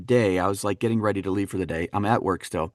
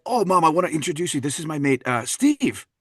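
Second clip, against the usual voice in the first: put-on Scottish accent, a little higher; Gerard Butler; 4 semitones higher than usual. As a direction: make an introduction in a Scottish accent. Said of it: "he's a Scottish actor".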